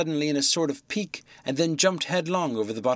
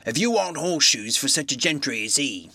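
rustic blacksmith. Acted. Wadgers voice.

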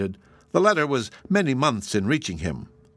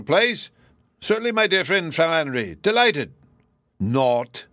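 higher, mocking Irish agent; 5 semitones higher than usual. Flannery mocking the clerks and playing Morehouse, higher. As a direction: scoff at the clerks in an Irish lilt.

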